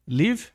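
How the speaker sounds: "Live" said with a short i, as in "live"; "Live" with a short quick vowel; sample word said aloud. Shown as a demonstration. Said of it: "você ia falar como?". (pronúncia "Live" com i curto)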